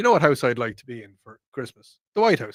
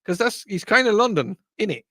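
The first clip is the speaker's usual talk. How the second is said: light Cockney; 6 semitones higher than usual. Retold or imitated. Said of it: "why'd you sound Cockney?".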